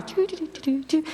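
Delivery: quick, high, soft choo choo noises of magic dishes; soft, high cartoon magic sound effect; imitated cartoon whoosh. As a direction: make light playful cartoon magic sounds. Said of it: "And the dishes do like".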